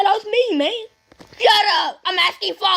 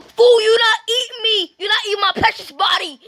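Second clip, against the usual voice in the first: shouting; 4 semitones higher than usual. Pretend. Yelling at attacker.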